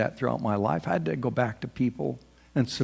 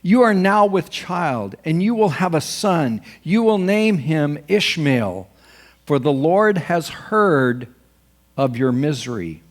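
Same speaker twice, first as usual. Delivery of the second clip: loud, slow, raised scripture reading; angel's proclamation; 3 semitones higher, 5 dB louder than usual. Retold or imitated. Angel announcing a son to the servant, proclaiming. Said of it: "the angel of the Lord also said to her".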